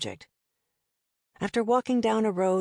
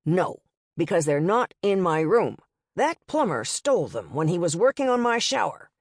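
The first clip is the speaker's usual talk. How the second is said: through clenched teeth. Acted. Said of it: "talking through clenched teeth".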